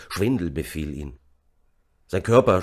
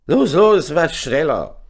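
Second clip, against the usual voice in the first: high, very loud shouted order; called out; 10 semitones higher, 9 dB louder, slower than usual. A narrator's reading. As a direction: hurry them along with a shout. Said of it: "rief Vitius". (laut antreibend gerufen)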